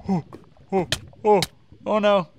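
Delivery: real panic at sudden danger; panicked oh no. Real, not acted.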